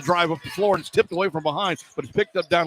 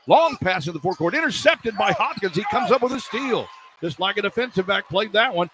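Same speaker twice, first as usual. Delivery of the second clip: higher, building call through the steal and miss; excited play-by-play; 6 semitones higher than usual. Real, not acted. Announcer calling a steal and missed layup, climbing excitedly. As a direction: ride the fast break up in pitch.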